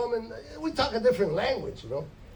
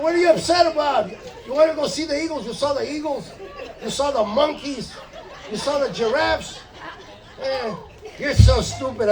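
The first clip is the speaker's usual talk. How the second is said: put-on upset girlfriend; 4 semitones higher, 3 dB louder than usual. Girlfriend complaining in retold quarrel.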